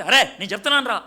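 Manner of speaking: a senior loudly insisting to a junior; elder's loud assertion. Retold or imitated. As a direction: bark it out fast like a senior putting his foot down. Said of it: "పెద్దోడు కాబట్టి గట్టిగా అరిచావు".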